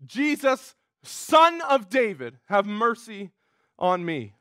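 high, slow cry, falling away at the end; retold scream, high and stretched out without shouting; mock pleading scream. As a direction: act out a blind man's plea, pitched high. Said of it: "No, he screams out".

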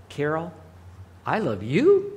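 casual, careless "I love you"; offhand "I love you". Shown as a demonstration. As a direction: toss off "Carol, I love you" without meaning it. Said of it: "how I did it with my tone".

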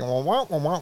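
muted trombone wah wah gibberish; adults-in-Peanuts gibberish. Shown as a demonstration. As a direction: talk like the grown-ups in Peanuts. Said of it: "I'm just gonna speak like, uh, the adults in parents".

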